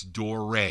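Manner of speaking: Dore repeated with no ee at the end; correct pronunciation. Shown as a demonstration. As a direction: insist on Dore. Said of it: "That's how you pronounce it".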